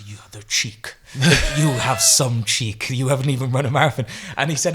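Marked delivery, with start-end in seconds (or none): 0.0-0.9 lightly voiced well-spoken Briton; measured, lightly imitated British reserve; well-spoken British runner. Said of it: "He's really well spoken". 1.1-4.1 louder, mock-indignant Briton; lightly voiced well-spoken outrage; indignant British runner. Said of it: "He's really well spoken".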